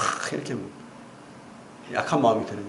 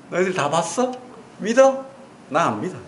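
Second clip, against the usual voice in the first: stubborn doubter; 4 semitones higher than usual. Retold or imitated. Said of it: "이렇게 말하는 겁니다".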